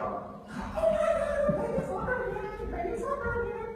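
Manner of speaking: put-on very high, loud, squealing child voice; delighted little girl. Jessica two minutes after crying, excited high child squeal. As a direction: imitate a child bursting with glee. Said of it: "And then two minutes later".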